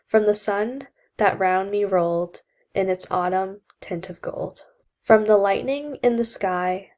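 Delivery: a lightly voiced, measured reading of verse; student reciting Alone before analysing it; poem recitation. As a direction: read the poem out as a classroom recitation.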